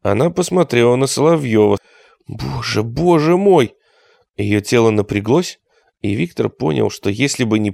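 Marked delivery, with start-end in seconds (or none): 2.3-3.8 frightened cry. Acted. Terrified woman sees creature.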